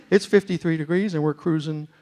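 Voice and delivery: put-on airline captain announcing in a West Virginia accent; Chuck Yeager. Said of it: "all the pilots wanna talk like Chuck".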